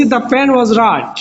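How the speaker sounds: very slow, deliberate English sentence; slow model sentence. Shown as a demonstration. Teacher modelling the sentence slowly for the class. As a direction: lay each word down slowly. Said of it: "পরের বার বলতেছি".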